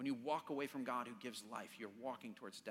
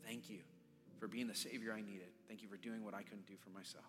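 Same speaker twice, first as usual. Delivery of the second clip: prayer; 2 semitones lower than usual. Acted. Prays thanks aloud for congregation.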